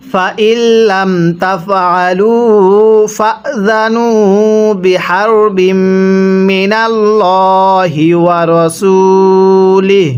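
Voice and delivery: slow, drawn-out tajweed chanting; Quran recitation. Shown as a demonstration. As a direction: recite the verse slowly, stretching the vowels. Teacher recites the full verse. (ধীর সুরেলা কুরআন তিলাওয়াত)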